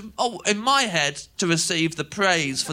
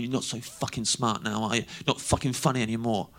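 low, soft retold threat; quiet menace; 9 semitones lower, 7 dB quieter than usual. Gang member to cornered drunk, low quiet menace. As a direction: lower and soften it into a taunt.

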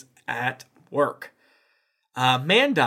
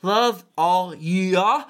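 demon voice; 4 semitones higher, much slower than usual. Acted. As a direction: drag it out like a demon. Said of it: "Please read in Bachman's demon voice".

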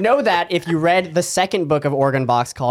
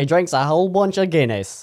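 mock Irish accent; 3 semitones higher than usual. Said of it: "That's my Irish accent".

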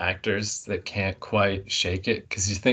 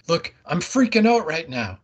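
imitating a Canadian accent, higher and louder; mock Canadian girl panicking, higher and louder; 8 semitones higher, 4 dB louder than usual. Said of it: "It was so Canadian".

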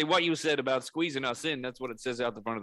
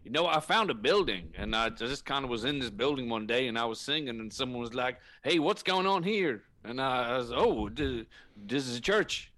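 put-on Southern preacher accent; 3 dB louder than usual. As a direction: lay on a homely Southern American preacher accent. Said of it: "people take me more seriously when I talk like this".

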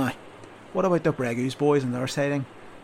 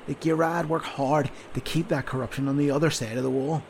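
a louder sergeant scolding a recruit; berating sergeant; 3 semitones higher, 5 dB louder than usual. Acted. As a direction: tear into the sleepy soldier. Sergeant berating sleepy soldier.

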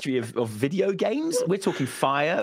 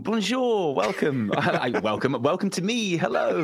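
drawn-out, higher-pitched mock welcome; playful grand greeting; 5 semitones higher than usual. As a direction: greet everyone with playful pomp.

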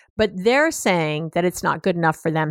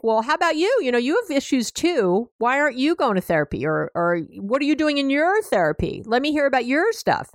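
higher-pitched, lightly acted defensive pushback; defensive retort; 5 semitones higher than usual. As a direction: turn the questions back on your partner, pitched up. Acts client turning questions on partner.

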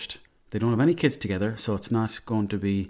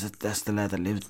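hushed; 6 dB quieter than usual. Retold or imitated. Mechanic explains quietly.

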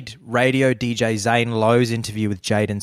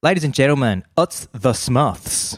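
put-on Kiwi accent. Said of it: "Smith's a good word to say in the Kiwi accent".

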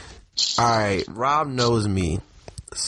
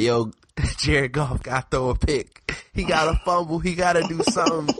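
mock reverse psychology; 5 semitones higher than usual. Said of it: "my reverse psychology tweets like".

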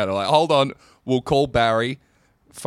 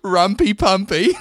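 louder, higher, slow mock French; mock French accent; 7 semitones higher, 5 dB louder than usual. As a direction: savour it in a hammed-up French accent. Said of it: "written down the accent here".

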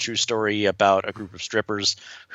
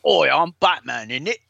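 mock Bale as Batman in a British accent; Christian Bale impression; 5 semitones higher than usual. Podcaster teasing Bale's own voice, hammed-up British accent. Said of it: "shitty Christian Bale impressions".

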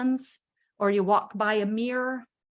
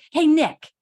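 calling out; 4 semitones higher, 8 dB louder than usual. Retold or imitated. Mom calling to her son.

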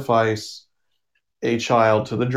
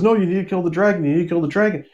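higher, fast, pushy little possum voice; insistent possum; 5 semitones higher, much faster than usual. Retold or imitated. Talking possum urging the hillbilly to strike, higher and fast. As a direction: rush it out, urging him to kill.

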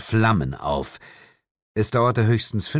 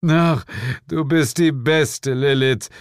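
tag adoring; 7 semitones higher, 4 dB louder than usual. A narrator's reading. Devil adores Lilith.

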